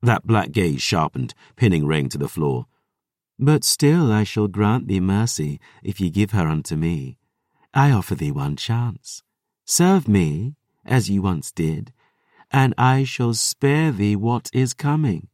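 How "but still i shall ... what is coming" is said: cold, mocking predator; menacing vampire voice. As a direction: offer mercy like a threat. Lily offers false mercy.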